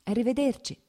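"Arrivederci" lifted high and bright, smiling through it; smiling goodbye. Acted. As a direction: soften the mother's coldness with a sweet "Arrivederci". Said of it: "con un sorriso disse".

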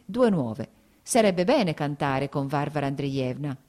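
jovial, expansive chatter; tipsy cordial. Acted. Mellow after dinner wine, host chatters about singing, jovial. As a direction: gush about the serenade like a merry host. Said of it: "dell'umore più cordiale e poetico".

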